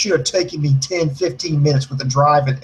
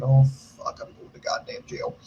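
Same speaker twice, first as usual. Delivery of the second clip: hushed, breath-only mock panic; inner panicked thought; 6 dB quieter than usual. Panicking inwardly in the store about jail, whispered thought. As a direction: drop to a whisper as if thinking it. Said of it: "But inside, I'm thinking".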